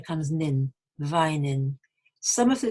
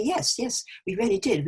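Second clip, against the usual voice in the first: insistent confirmation; 5 semitones higher than usual. Acted. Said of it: "the person you're speaking to to say".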